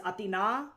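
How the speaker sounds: Athena with the last syllable stressed; ah-thee-NAH, Athena landing on the final A. Shown as a demonstration. Streamer teaches chat Athena, stress on final A. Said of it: "really stress that final A".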